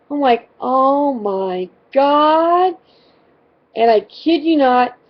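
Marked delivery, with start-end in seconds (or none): 0.6-2.8 drawn-out, higher-pitched dismay; slow, appalled reaction; mortified groan. Retold or imitated. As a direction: stretch it out in retold horror. Mortified reaction to daughter's scream.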